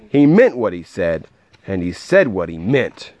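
lively, rhythmic read-aloud; storybook voice with a measured bounce; story narration. A narrator's reading. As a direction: read a rhyming picture book to a child.

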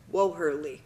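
"Woherly" said as wo-HER-lee; "Woherly" with a separate "wo" before "herly"; teachers' pronunciation. Shown as a demonstration. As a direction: sound out "Woherly" as wo plus hurly. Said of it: "how all my teachers pronounced it".

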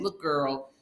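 put-on high, punchy girlfriend scolding; sassy retort. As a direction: scold her like a sassy friend. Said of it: "Sabrina chiming in saying".

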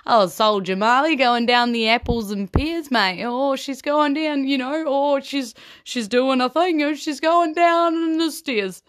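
a silly Cockney accent, played for laughs; weird Cockney accent.

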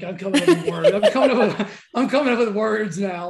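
laughing. Real, not acted. Host laughing at herself for inventing code words. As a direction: giggle as you say it. Host giggling at her own idea.

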